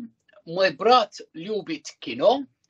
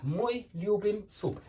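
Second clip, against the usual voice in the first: slow model sentence; 3 semitones higher, 5 dB quieter than usual. Shown as a demonstration. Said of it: "model sentence for learners".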